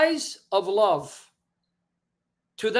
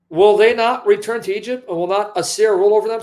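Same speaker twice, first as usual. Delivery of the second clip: raised, forceful scripture quote; loud warning; 6 dB louder, faster than usual. Acted. Preacher booms God's warning to the congregation, loud and forceful.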